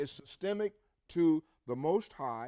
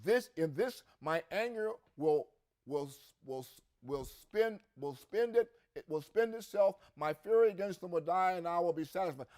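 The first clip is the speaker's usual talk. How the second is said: raised, driving scripture reading; 2 semitones higher, 3 dB louder than usual. Acted. Preacher reading Ezekiel aloud to congregation, proclaiming with force.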